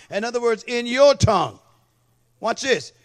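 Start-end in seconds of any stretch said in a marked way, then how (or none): 0.6-1.6 loud preaching punch. Real, not acted. Preaching emphasis on tongue.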